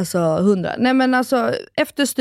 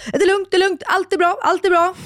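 imitating husband; 8 semitones higher than usual. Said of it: "Och sen hör jag".

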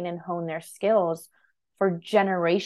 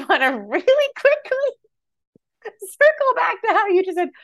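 high, louder, giggly tease; talking through laughter; 13 semitones higher, 4 dB louder than usual. Real, not acted. Teasing a co-host about their odd word, talking through laughter. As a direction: barely hold the laugh in.

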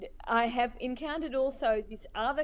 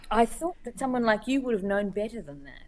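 patronizing disappointment. Retold or imitated. Critic reproaching a cartoonist by email, mock patronizing disappointment. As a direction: scold like a let-down, patronizing critic. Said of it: "It's so patronizing".

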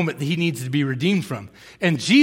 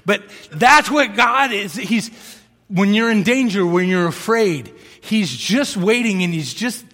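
rising preacher's call, louder and higher; preaching loud; 3 semitones higher, 5 dB louder than usual. Real, not acted. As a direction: drive the point home to the crowd. Preaching point about God.

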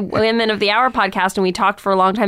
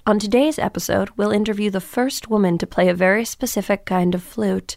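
lightly mocking public-radio host intro; NPR lady. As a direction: parody an earnest, measured podcast introduction. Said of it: "weird N P R lady".

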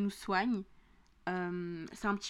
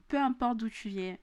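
real southern French twang on "viens"; southern French accent. Real, not acted. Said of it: "pourquoi mon accent du Sud est revenu".

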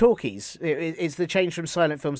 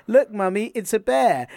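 put-on little girl; 6 semitones higher, 4 dB louder than usual. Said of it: "little girl says to her mum".

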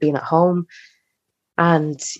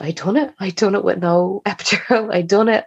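retold joy; 5 semitones higher than usual. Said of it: "I just said".

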